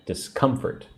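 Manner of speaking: Discomfort with COM emphasized; stress on second syllable. Shown as a demonstration. Teacher showing emphasis on syllable two, Discomfort stressed on COM. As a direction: punch the middle syllable of Discomfort. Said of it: "Put the emphasis on syllable two".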